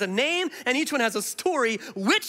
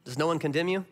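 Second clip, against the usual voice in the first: gentle Jesus; 5 semitones lower, 4 dB quieter than usual. Retold or imitated. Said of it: "And he says".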